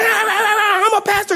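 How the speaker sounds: slow, high, laughing self-parody; mocking himself. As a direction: drag it out, laughing at your own outburst. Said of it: "I'm like".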